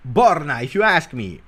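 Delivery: loud opening, falling at the end; calling out a viewer's message; emphatic read-out. Acted. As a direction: punch out the name, then drop.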